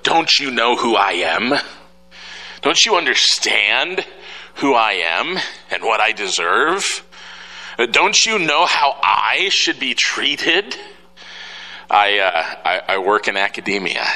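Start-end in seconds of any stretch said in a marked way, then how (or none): 0.0-10.8 a hint of entitled indignation, slowed; lightly mock the self-important; entitled attitude. Preacher describing people's attitude, mildly mocking. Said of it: "this attitude of".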